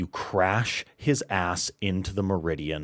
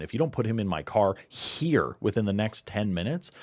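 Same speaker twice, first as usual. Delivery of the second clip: irate handler; 4 semitones higher, 5 dB louder, faster than usual. Acted. GM voices irate handler on phone.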